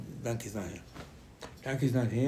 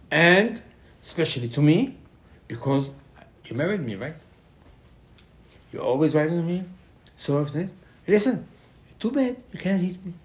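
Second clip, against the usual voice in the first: higher, louder complaining donkey voice; a put-upon donkey scolding her rider, raised up; indignant donkey; 4 semitones higher, 4 dB louder than usual. Acted. The donkey scolding Bilam for hitting her, higher and louder.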